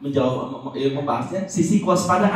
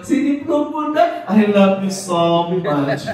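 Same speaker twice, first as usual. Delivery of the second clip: doting mother. Pretend. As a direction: gush lovingly over the drawings on the wall. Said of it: "ekspresinya seperti ini". (ibu mengagumi coretan anak dengan penuh sayang)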